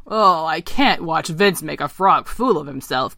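slow, lightly voiced frog; croaking frog. Eric watching his friend make a fool of himself, croaking. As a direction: draw out the frog's dismay. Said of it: "croaked Eric".

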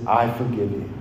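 soft and low, plainly sincere; quiet forgiveness. Retold or imitated. Coach answering his boss's confession, softly forgiving. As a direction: forgive her calmly, eye to eye. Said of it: "and he says".

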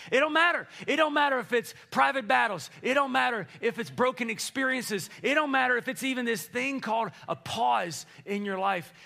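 loud, high preaching in a mock Alabama accent. Shown as a demonstration. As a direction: keep the Southern Alabama twang going and build the crowd up. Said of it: "your best Alabama accent".

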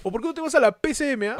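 pregunta retadora en broma, aguda y rápida; insulto fingido. Pretend. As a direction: lanza las siglas como una grosería. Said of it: "Que suena a insulto". (insulto de mentira, acelerado)

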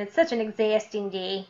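mimicked Midwest accent; lightly put-on Midwest vowels. Shown as a demonstration. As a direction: do a Midwest accent, leaning on the A in "exhausting". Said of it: "I'm mimicking my Midwest accent".

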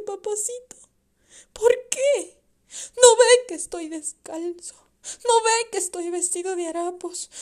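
put-on young son begging his drunk father, near tears; pleading child. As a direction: beg your father to stop drinking.

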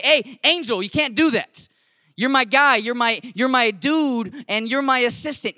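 retold telling-off. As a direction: act out firmly calling a kid out. Acted telling-off of pupil.

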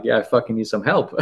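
laughing through the words; half-laughing relief. Retold or imitated. Answering the helper, laughing.

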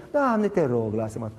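a low, whiny plea, dropping away; Balaam pleading. Retold or imitated. Balaam pleading with God, low whiny beg. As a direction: beg and fade to a moan. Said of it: "Balaam ce zice?".

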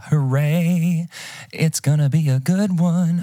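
excited. Real, not acted. Cheering the new year.

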